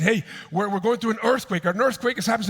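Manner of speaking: imitated agent breaking alarming news; urgent alert. Acted agent announcing an earthquake.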